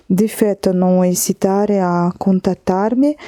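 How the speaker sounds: slow, careful reading of an Italian note; lecture à voix haute. Real, not acted. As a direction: read the Italian message slowly, word by word. Reads the Italian message aloud. (lecture lente et appliquée en italien)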